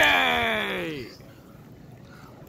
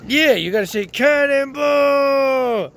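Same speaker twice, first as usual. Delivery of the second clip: calling out; 5 semitones higher, 3 dB louder, much slower than usual. Real, not acted. Parent coaching child loudly.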